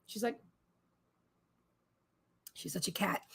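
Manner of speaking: an amused whisper to the camera; whispered aside. Real, not acted. Amused aside about the cat.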